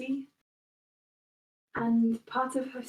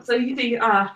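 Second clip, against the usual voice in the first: lightly voiced proud nobleman, building louder; proud noble Greaves; 6 dB louder than usual. Greaves boasting to the party, lightly voiced and swelling louder. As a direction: boast of his nation with growing pride. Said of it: "the Greaves is like".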